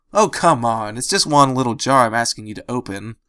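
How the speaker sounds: whiny, pleading complaint; complaining. Acted. Dash complaining to Andrew about the jar, whiny. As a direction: grumble like it's nothing. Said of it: "Dash complained".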